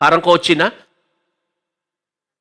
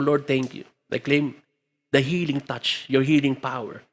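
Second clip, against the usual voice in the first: hushed prayer; 5 semitones lower, 9 dB quieter than usual. Retold or imitated. Retold tearful prayer at seaside.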